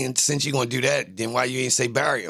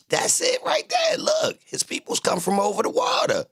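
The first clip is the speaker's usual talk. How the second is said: hyped shout. Real, not acted. Hyped rant about lead chips.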